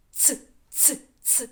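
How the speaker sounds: ц hissed alone, short and voiceless; isolated sound ts. Shown as a demonstration. Teacher isolating the ц sound for children, voiceless. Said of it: "Заважає нам що? Зуби".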